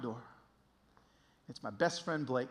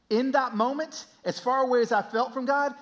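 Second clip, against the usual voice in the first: raised, emphatic sermon voice; impassioned preaching; 9 semitones higher, 7 dB louder than usual. Real, not acted. Preacher urging those angry at God, impassioned. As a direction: press the truth home to the congregation.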